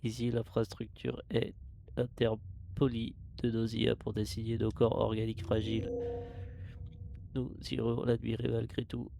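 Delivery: steady mechanical log voice; robot voice. Acted. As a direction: read it like a ship's computer. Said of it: "je fais une voix de robot".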